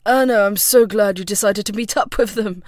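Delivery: loud, grinning man's greeting; hearty, pleased welcome; glad exclamation. A narrator's reading. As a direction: exclaim it with a big grin. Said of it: "he exclaimed, a wide grin".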